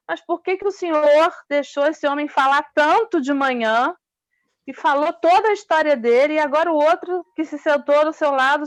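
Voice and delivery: acted student's baffled objection; indignant questioning. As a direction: question the teacher in puzzled protest. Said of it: "isso gerou um desconforto muito grande".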